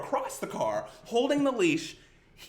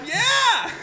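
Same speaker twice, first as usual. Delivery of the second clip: forced cheery yeah; 13 semitones higher, 7 dB louder than usual. Retold or imitated. Overly cheery answer to boss.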